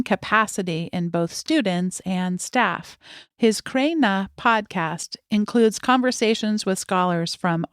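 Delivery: measured, carefully phrased bio read; formal guest introduction. Acted. Host introducing a guest to podcast listeners, formal read.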